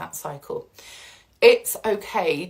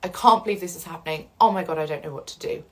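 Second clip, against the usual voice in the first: panicky denial; 2 semitones lower, faster than usual. Retold or imitated. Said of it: "shock and denial, where you say".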